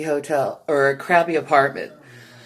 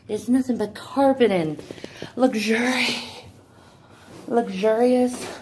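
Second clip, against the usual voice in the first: breathless on the stairs; out of breath, still showing off. Real, not acted. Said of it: "because I'm out of breath".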